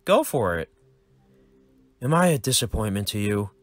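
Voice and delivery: put-on high, bright kid voice, eager; a nerdy boy greeting his dad; cheerful young son.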